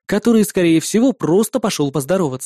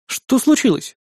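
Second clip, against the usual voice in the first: surprised; 6 semitones higher, slower than usual. Acted. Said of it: "удивился я".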